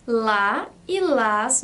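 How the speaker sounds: la y las said slowly, each article apart; slow teacher model; slow demo. Shown as a demonstration. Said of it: "é o masculino".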